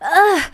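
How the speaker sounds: high groan of dread; exasperated groan. Retold or imitated. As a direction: groan with your whole body. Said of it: "my whole body just went".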